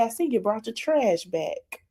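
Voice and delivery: shady quote. Retold or imitated. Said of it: "she said".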